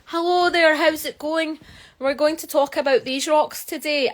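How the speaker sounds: high-pitched, over-polite presenter parody; mock professional voice. Vlogger mimicking the proper voice she was told to use, mock-professional. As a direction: put on an exaggerated professional presenter voice. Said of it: "like, a professional voice and be like".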